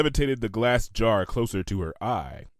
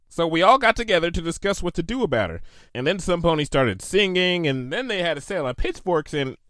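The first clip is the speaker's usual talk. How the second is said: tale-telling; 7 semitones higher than usual. A narrator's reading. Bon Bon tells mob story.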